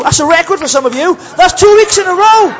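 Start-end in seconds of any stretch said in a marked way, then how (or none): 1.4-2.5 King repeated. Acted. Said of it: "And the King says".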